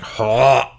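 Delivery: mock retching gasp; imitated heave. Friend retelling how his body heaved, imitated retch. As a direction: imitate a body heaving to throw up. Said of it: "like, I went, like".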